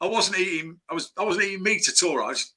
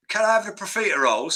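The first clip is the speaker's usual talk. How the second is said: lightly imitated film-star greeting; a hint of a famous London actor; Michael Caine; 3 semitones higher, faster than usual. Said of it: "do my Michael Caine impression".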